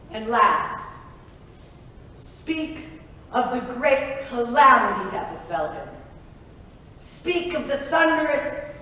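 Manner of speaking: grand bardic storytelling voice; mock epic narration. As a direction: recite it like an ancient epic.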